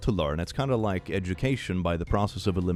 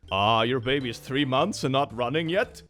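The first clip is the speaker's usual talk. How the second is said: high, teasing put-on mom; a lightly voiced sarcastic parent; mocking mom voice; 5 semitones higher than usual. Mock mom and chiropractor voices.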